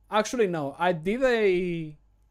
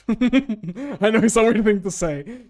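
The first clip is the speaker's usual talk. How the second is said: laughing; 8 semitones higher, 9 dB louder, slower than usual. Real, not acted. Laughs at own remark.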